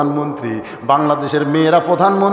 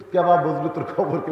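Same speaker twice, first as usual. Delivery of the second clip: light Bogura Bengali dialect, retold father; হালকা বগুড়ার আঞ্চলিক টান; 6 dB quieter, faster than usual. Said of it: "মানে বগুড়ার ভাষা".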